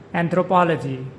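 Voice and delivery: Anthropology, stressed on the third syllable; model pronunciation. Shown as a demonstration. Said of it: "With the stress on the third syllable".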